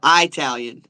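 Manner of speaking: "Italian" opened like the word eye; long-I pronunciation. Shown as a demonstration. Host weighing which ways to say it, long-I pronunciation. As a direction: say Italian starting with a stressed EYE sound. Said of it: "which ways to say it".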